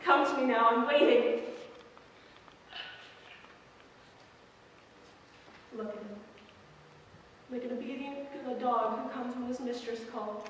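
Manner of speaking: a possessive rival taunting, then coaxing; acted rival monologue. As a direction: lure him in, then mock the one who lost him.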